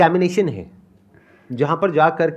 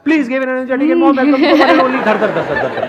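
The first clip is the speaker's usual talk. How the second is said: rote stage announcer; 4 semitones higher, 4 dB louder, slower than usual. Shown as a demonstration. Host showing students a memorised welcome, in a rote announcer voice. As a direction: rattle off a memorised welcome, raised and energetic. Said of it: "जैसे मैं नहीं बोलता यहाँ पे जब भी कोई आता है".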